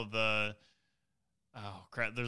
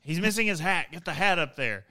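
raised, urgent mock alarm; mock panic; 6 semitones higher, 4 dB louder than usual. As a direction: play the panicked fan. Twitter panic over missing cone.

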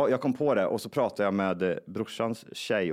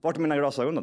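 mock panicked yell; 4 semitones higher, much faster than usual. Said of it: "tänker jag".

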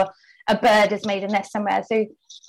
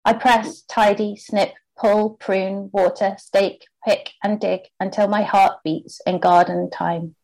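croaky voice; slower than usual. Real, not acted. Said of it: "Sorry about my croaky voice".

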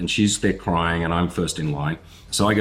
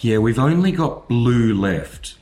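awkward; 4 semitones higher, slower than usual. Retold or imitated. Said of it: "he comes out awkwardly".

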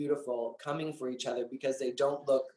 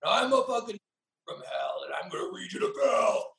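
retold fury; 4 semitones higher than usual. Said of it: "just exhaled and was like".

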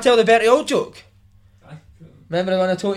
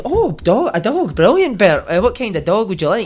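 mum voice; slower than usual. Retold or imitated. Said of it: "my ma says".

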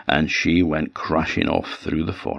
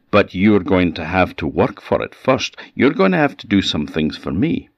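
put-on demanding old hag, a bit raised; old witch voice; 3 semitones higher, 4 dB louder than usual. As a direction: Baba Yaga laying down her terms. Baba Yaga speaking in story.

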